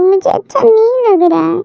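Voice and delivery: choked up, fighting back tears; a mother sobbing as her daughter leaves home; tearful mother. Acted. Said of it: "मम्मा, आप रो क्यों रही हो?".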